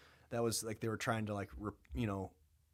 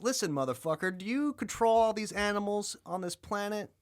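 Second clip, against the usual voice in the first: loud, much higher, scolding; mock angry God; 10 semitones higher, 6 dB louder than usual. God yelling at Job about the animals, loud and high. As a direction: bellow at Job like an irritated deity.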